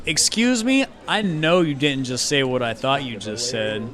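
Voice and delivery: mildly affronted street tough. Acted. Gang member confronts a mouthy player, affronted.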